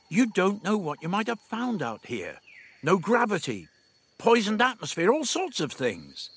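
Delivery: a hint of a fretful companion; worried young man. A narrator's reading. Stephen to Dodo, mildly anxious warning.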